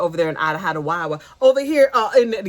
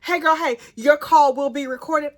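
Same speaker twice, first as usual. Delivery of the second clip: mock jail recording voice; 4 semitones higher than usual. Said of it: "not a quote, but that's the spirit".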